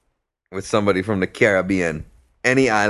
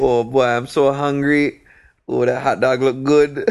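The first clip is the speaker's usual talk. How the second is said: lightly put-on Caribbean accent, higher pitch; imitated Caribbean patois; 4 semitones higher, 3 dB louder than usual. Hungry friend admiring a hot dog, imitated Caribbean accent. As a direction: mimic a hungry buddy with a Caribbean lilt.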